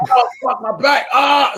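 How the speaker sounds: high-pitched cries of pain; retold screaming. Wrestler lying on the steps, screaming about his back. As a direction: wail in hammed-up agony.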